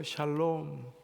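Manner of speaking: gentle, fading parting blessing; fatherly farewell. Acted. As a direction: say goodbye like a father at his daughter's wedding. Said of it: "친정 아버지가 ... 마지막 인사를 하는 것처럼".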